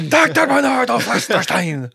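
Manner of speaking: high, loud mad scientist cry. Acted. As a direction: proclaim it like a mad doctor. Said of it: "That sounds like a mad scientist".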